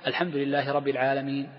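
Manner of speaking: "رب" recited with a single, undoubled b; dropped shadda. Retold or imitated. Teacher imitates people he heard reciting, "رب" without its shadda. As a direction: imitate a reader skipping the doubled b in "رب". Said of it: "وأنا سمعت أناس يقرأ كذا".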